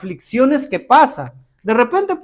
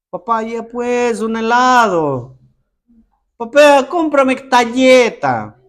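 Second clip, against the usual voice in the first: put-on pleading child. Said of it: "¿Cómo hablas a tu papá?".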